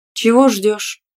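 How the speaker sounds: innocent question. A narrator's reading. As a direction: ask as if you had no idea. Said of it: "невинно спросила я".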